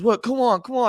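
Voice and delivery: 2 high, loud imitation of a player yelling back; 3 hammed-up player shouting "come on"; 1 mock yell. 4 host mimics an angry opponent on the field, yelling high and loud.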